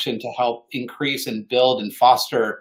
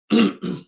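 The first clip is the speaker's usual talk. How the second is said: mock choked throat clear; 6 semitones higher, 3 dB louder than usual. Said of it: "Sorry, I'm getting choked up".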